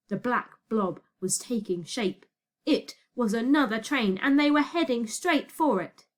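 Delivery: ordinary delivery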